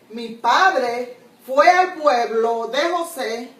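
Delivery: slow, with a pause after José; phrasing pause. Shown as a demonstration. Teacher showing a pause after José to the class. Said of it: "si tú dices".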